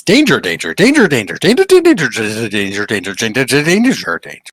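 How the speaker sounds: chanting warning, rising to a peak; fish chorus. Acted. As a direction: repeat it like a school of fish. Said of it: "you hear the word from all of your fish friends".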